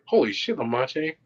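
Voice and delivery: high-pitched imitation of amazed friends; amazed friends imitated. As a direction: mimic their astonishment, pitched well up. Retold friends' amazed reaction.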